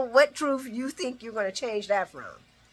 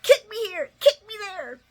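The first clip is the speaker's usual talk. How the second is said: mocking laughing sarcasm; 12 semitones higher, 4 dB louder than usual. Mocking Sonny's excuse.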